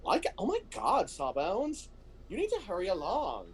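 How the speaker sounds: put-on high-pitched Valley Girl accent; Valley Girl Butler. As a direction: play a robot assistant as an airy Valley Girl. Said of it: "I have to do a Valley Girl accent for Butler".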